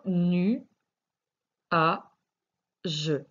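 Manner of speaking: nu, a, je split into separate syllables; teacher sounding out syllables. Shown as a demonstration. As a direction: spell out nu a je slowly with pauses. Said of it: "Je sais qu'à l'oral, on dit nuage".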